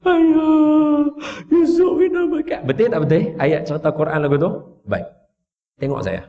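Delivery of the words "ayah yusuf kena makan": fake crying. Brothers fake-crying to their father Yakub, high mock wail. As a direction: whine it out like fake sobs to fool the father. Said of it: "Buat-buat menangis".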